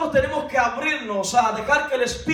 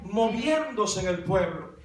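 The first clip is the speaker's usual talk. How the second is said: fervent proclamation; 3 semitones higher than usual. Retold or imitated. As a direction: proclaim it like a fired-up believer. Acted believer's fervent declaration.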